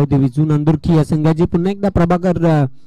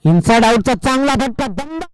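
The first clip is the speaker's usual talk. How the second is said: higher, rising cry of praise on a big hit; excited shot praise; 6 semitones higher than usual. Real, not acted. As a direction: lift the voice as the ball flies. Big shot called live.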